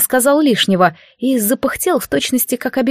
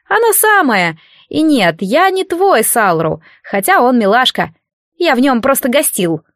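impish unseen spirit; 3 semitones higher than usual. Acted. Spirit scolding a sleeping priestess, impish and grumbling. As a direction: tease her like a bored little godling.

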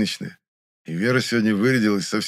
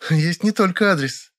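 raised, slow, smiling voice; smiling Vera; 10 semitones higher, 4 dB louder than usual. A narrator's reading. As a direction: savour the secret with a grin. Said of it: "растянула в улыбке губы Вера".

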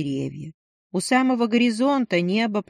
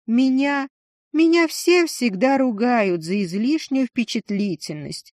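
put-on higher, flustered young woman; nervous, self-conscious rush; flustered timid woman; 4 semitones higher than usual. Lishin embarrassed explaining.

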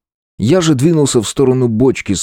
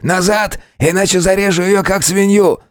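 threatening yell; 10 semitones higher than usual. Acted. Bandit threatens hostage's life.

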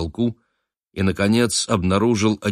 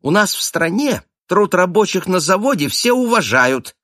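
put-on higher, louder snide child's voice; nasty girl's voice; 12 semitones higher, 4 dB louder than usual. A narrator's reading. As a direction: butt in smugly as a preachy twelve-year-old. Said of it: "противным голосом вклинилась".

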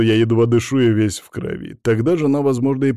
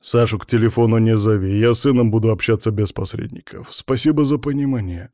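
ironic. Acted. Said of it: "сказал он с иронией".

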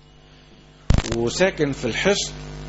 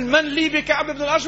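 the Prophet's call; 9 semitones higher than usual. Retold or imitated. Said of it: "أول النبي يقول".

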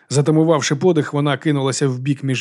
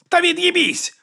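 barked curse; slower than usual. A narrator's reading. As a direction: bark it as she throws him over. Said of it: "гаркнула Віга".

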